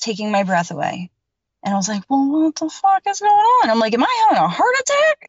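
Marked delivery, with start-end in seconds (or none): 2.1-5.3 high, loud, frantic questions; panicked. Retold or imitated. Woman in bed, panicking that her chest is rising, high frightened cries. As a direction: shriek it as if you can't breathe.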